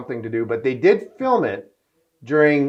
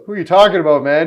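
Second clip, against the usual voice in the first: mimicking Cuba; 4 semitones higher, 9 dB louder, faster than usual. Cuba asks, had drinks.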